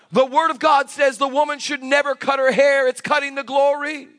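mildly plaintive imitation; mock tearful husband. Husband explaining the hair rule to pastor, mock tearful. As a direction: mimic an upset husband reciting the rule. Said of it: "But he starts crying".

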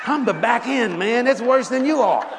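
laughing loud at his own joke; loud, laughing self-mockery. Real, not acted. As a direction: crack up while saying it.

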